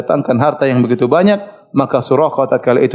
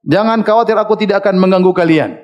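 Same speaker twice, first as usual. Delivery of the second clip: mild retold shout; 5 semitones higher than usual. Suraqah reassuring those he chased, mildly imitated calling out. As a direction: call out lightly, imitating a shout. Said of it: "dia teriak".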